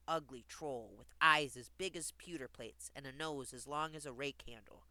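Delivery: measured storybook reading; lilting fairy tale narration; story narration. Acted. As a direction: read a rhyming tale aloud clearly.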